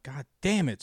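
exasperated curse, punched on the second word; retold anger. Stressed driver cursing the rash, mock-angry burst. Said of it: "start getting mad".

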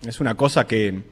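measured reflective reading over music; radio essay narration. Acted.

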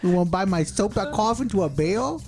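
lightly voiced prison craftsman; inmate voice. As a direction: play a shy inmate selling crafts. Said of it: "I'm Jacob".

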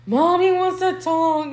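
mock babyish voice, slow; mocking baby talk. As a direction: tease him like a toddler. Mocking boyfriend in retold scene.

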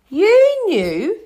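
high-pitched, stunned question; stunned disbelief. A narrator's reading. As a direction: voice leaping up in disbelief. Harry learns they knew all along.

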